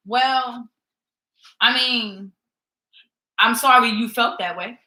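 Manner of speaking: fake apology. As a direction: apologize without meaning it, dragging each phrase. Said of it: "I'm not gonna say to you".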